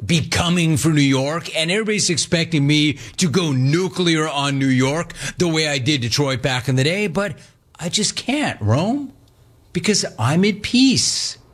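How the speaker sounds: a hint of a reluctant, at-peace caller. Caller tells host he can't hate New York, mock-peaceful. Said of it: "I did not expect him to say".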